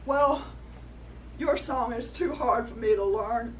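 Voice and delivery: lightly voiced coyote pleading his case. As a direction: coyote tells the rock off. Coyote repeats his complaint.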